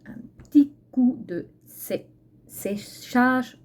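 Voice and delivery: "séchage" with a slushy lisp, "s" smeared toward "sh". Real, not acted. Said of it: "J'ai comme un cheveu sur la langue".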